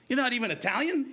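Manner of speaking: high, disbelieving squeak of surprise; stunned question. Retold or imitated. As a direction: ask it as if you can't believe it. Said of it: "he's like".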